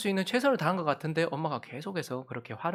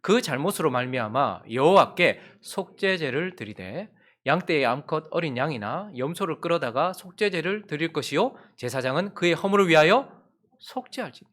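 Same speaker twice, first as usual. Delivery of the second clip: scripture reading. Acted. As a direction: read the verse solemnly.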